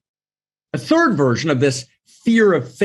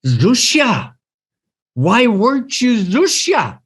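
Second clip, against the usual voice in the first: heavenly question; 8 semitones higher, slower than usual. Retold or imitated. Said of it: "And the question's gonna be".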